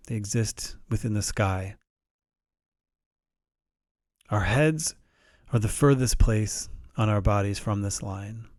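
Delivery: calm, measured meditation guide with long pauses; unhurried guided-meditation delivery. Shown as a demonstration. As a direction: gently guide listeners through it, pausing between phrases.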